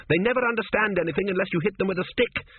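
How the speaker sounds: high, exasperated call; shouted. A narrator's reading. Rider explains camels to the sergeant in passing, shouting. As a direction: keep calling out, pitched well up. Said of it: "shouted Tepic as he whirled past".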